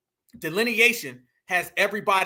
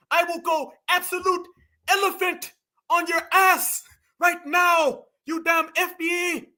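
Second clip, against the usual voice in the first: mock tough guy, higher and yelled; mocking impression; 6 semitones higher than usual. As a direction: ham up his threats in a squeaky, overblown shout. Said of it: "I promise you that's what this man said".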